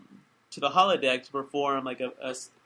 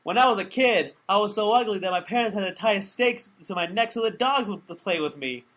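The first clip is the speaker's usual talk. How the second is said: quick, higher, louder joke telling; upbeat run straight through to the punchline; joke as written; 5 semitones higher, 3 dB louder than usual. Shown as a demonstration. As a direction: rattle the whole joke off briskly. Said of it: "the joke is".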